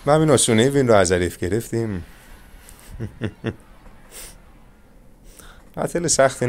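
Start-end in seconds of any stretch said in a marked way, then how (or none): 2.9-3.5 quiet, brief laugh; a soft little chuckle to yourself; short chuckle. Real, not acted. Chuckling after an easy win.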